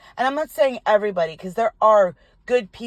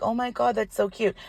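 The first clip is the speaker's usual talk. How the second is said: cooing; 3 semitones higher, 3 dB quieter than usual. Acted. Imitating someone approaching an animal, lightly cooing. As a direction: coo lightly as if at a cute animal.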